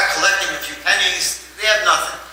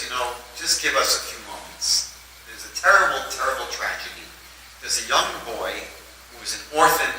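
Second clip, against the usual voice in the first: laying it on thick. Retold or imitated. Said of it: "this rabbi is laying it on really, really thick".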